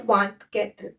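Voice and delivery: वांत कैत्र as "vant" plus "katr"; French pronunciation. Shown as a demonstration. Teacher modelling twenty-four in French, वांत कैत्र pronounced the French way. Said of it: "क्या बोलते हैं?".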